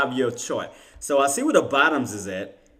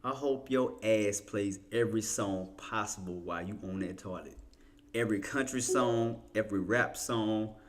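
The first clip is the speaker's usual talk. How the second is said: mock curse; 4 semitones lower, 9 dB quieter than usual. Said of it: "I'm just kidding".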